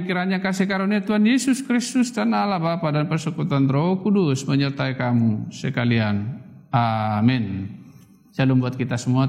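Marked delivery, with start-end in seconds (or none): 0.0-7.7 closing benediction. Real, not acted. Preacher blesses the congregation to close the prayer, formal benediction. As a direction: pronounce a blessing over the congregation.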